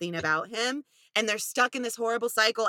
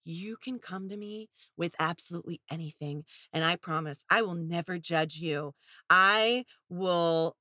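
mock sincere boyfriend; 4 semitones lower, 3 dB quieter than usual. Mocking her boyfriend's hollow soft-spoken pledge. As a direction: fake sincerity, dragging it out. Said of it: "And he's like".

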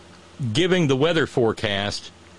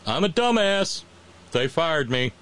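mocking dumb voice; 4 semitones higher than usual. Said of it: "a different way to write that".

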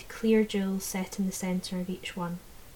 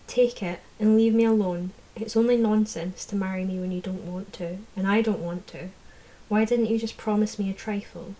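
put-on loud, heated young woman; angry defiance; 4 dB louder than usual. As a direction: tell him off, fed up. She confronts the fairy lord.

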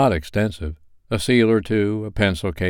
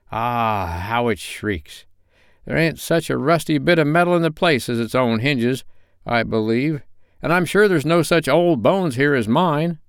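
put-on wheedling old Joe, raised and cackling; sly old pawnbroker welcoming them in; old Joe's voice; 6 semitones higher than usual. A narrator's reading.

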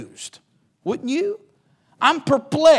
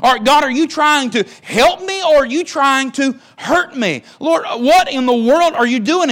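confused plea to God; 3 semitones higher than usual. Retold or imitated. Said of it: "going to be just a little confused".

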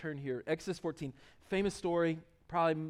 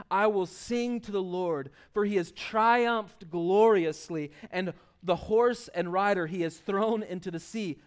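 slow, stately verse reading; declaimed scripture reading; 4 dB louder, slower than usual. Acted. Preacher reading the Song of Moses, slow declamation. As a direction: proclaim the verse slowly, stretching key words.

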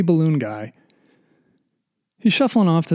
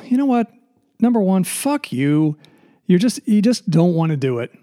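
retold outburst; 4 semitones higher, 4 dB louder than usual. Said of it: "I'm like".

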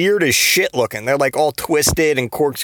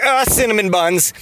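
higher-pitched yelp at climax; climactic mock yell; 8 semitones higher than usual. Imagining the Flash climaxing, mock yell. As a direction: cry out, pitched up, without extra volume. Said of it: "the Flash yells cinnamon buns".

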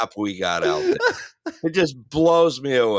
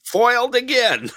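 laughing villain line; 12 semitones higher, 4 dB louder than usual. Pretend. Echoing villain catchphrase, laughing.

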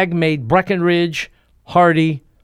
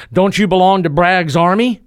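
louder, exasperated demand; 5 semitones higher, 6 dB louder than usual. Acted. General losing patience with the Texan, exasperated demand. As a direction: push the question out of patience. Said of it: "Exasperated, the general asked".

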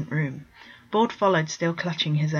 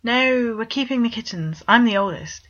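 protesting; 5 semitones higher, 4 dB louder than usual. Acted. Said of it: "he protested".

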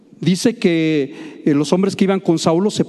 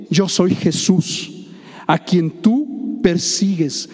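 solemn voice of Jesus; much slower than usual. Acted. Voice of Jesus quoted in sermon.

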